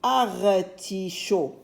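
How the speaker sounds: artichaut said slowly as one word; stretched syllables. Shown as a demonstration. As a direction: draw out "Artichaut" gently for the listener. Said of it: "dans la dernière syllabe". (artichaut prononcé lentement, d'un seul tenant)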